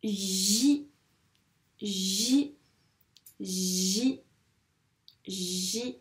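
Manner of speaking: "J" said "ji", long j rising into i; drawn-out "J", pausing between repeats; dictated syllable. Shown as a demonstration. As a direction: repeat "J" slowly as a stretched syllable "jjji". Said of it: "J'aimerais que tu m'écrives la syllabe".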